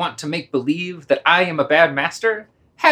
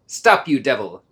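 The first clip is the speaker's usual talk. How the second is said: sharp indignant command; 3 semitones lower than usual. Acted. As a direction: snap at the dog. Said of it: "The indignant".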